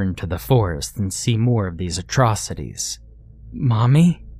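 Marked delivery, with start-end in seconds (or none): 3.5-4.3 a hint of a small boy's question; lightly voiced child calling out; timid little boy. A narrator's reading. Johnny calls to Mommy, timid child.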